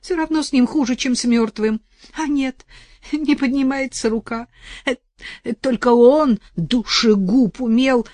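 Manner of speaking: put-on lightly tearful old woman; a touch of tears, pleading. Вдова жалуется Арсению на мужа, мягко со слезой. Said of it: "С слезой в голосе протянула она".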